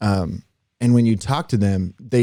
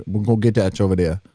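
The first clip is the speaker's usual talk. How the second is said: put-on Louisiana accent. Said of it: "Louisiana stereotypical accent".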